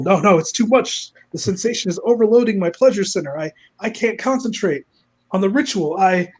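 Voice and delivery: high, flustered villain; mock overwhelmed panic. Villain overwhelmed mid-ritual, mock panicked. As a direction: lose control in hammed-up distress.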